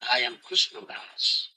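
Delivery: "I am Krishna Das"를 낮고 부드럽게 속삭이듯; 혼잣말하듯 조용히 읊조리기; hushed whisper. Shown as a demonstration. Devotee's inner realization, murmured.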